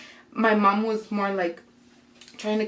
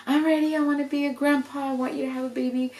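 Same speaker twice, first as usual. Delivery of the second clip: higher-pitched eager wishing; retold eager plea; 5 semitones higher than usual. Dad begs daughter for a baby, eagerly. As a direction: imitate a dad longing for a grandchild.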